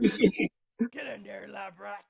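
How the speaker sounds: drawn-out bossy command; slow menacing order. Pretend. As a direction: drag it out like a drill sergeant. Repeating the recruit line in character.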